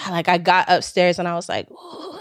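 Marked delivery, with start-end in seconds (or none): 1.7-2.2 soft, high "ooh" of pent-up agitation; retold shaky ooh. Woman retelling coming upstairs after the gym clash, quiet worked-up "ooh". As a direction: let out a hushed, higher "ooh". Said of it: "like, shaking".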